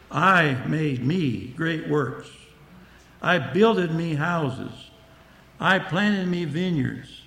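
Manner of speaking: slow, weighty reading with each line set apart; slow scripture reading. Acted. Preacher reads Solomon's boasts to the congregation, slow and weighty. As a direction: read the verses slow and heavy.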